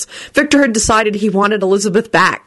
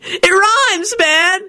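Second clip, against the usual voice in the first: very high goofy voice; cackling glee; 14 semitones higher, much slower than usual. A narrator's reading. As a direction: crow it in a high teasing voice. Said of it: "cackled Kenny".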